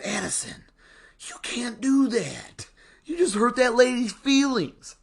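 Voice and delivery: a hushed parent's telling-off rising high; scolding his daughter. Retold or imitated. Dad scolding daughter in aisle.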